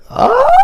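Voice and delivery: high squeal breaking into a laugh; excited squeal and laugh. Real, not acted. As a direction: squeal with fan glee, then laugh.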